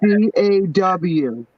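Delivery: eja C A W perlahan, huruf demi huruf; spelling New York coffee. Shown as a demonstration. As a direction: spell out "C A W" slowly, letter by letter. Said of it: "we say coffee like that".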